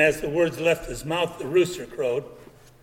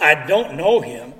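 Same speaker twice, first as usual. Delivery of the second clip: slow, louder oath; emphatic sworn denial; 5 dB louder than usual. Acted. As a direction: swear it with force. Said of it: "swearing with an oath".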